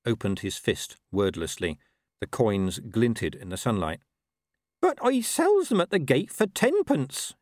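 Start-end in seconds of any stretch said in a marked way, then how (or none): 4.8-7.3 high, drawn-out wail; wailing farmer. A narrator's reading. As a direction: wail it in protest. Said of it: "he wailed".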